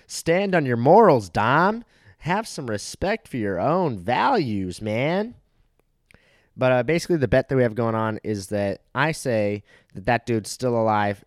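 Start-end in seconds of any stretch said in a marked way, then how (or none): 0.1-5.4 mock lecture. Mock lecturing his friend Dom.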